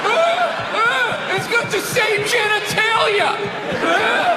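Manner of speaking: dumb voter voice. Retold or imitated. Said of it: "voicing a dumb voter".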